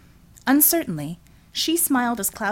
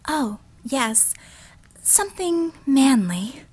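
Einhorn's voice; 5 semitones higher, slower than usual. A narrator's reading.

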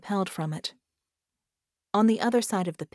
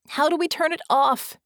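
high, louder urgent cry; mock panicked scream; 9 semitones higher, 5 dB louder than usual. Vicky demands help as the bomb activates, alarmed cry. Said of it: "Vicky screamed".

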